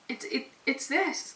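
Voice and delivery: halting, stumbling with real feeling; touched and searching for the words; a little emotional. Real, not acted. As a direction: falter as you try to get it out. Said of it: "I just got a little emotional".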